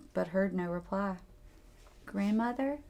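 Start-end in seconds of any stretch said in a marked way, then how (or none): 2.1-2.8 shaky voice. Acted. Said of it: "she said in a shaky voice".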